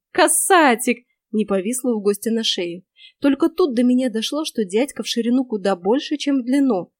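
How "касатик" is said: higher, louder delighted cry; joyful yell. Acted. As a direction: shriek it flinging yourself at him. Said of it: "с воплем". (ведьма с воплем бросается гостю на шею)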